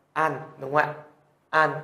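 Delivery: "an" closed on a final n; đọc mẫu. Shown as a demonstration. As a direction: model "an" for learners, ending in n. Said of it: "chúng ta cũng sẽ phát âm như thế". (đọc mẫu "an", âm n cuối)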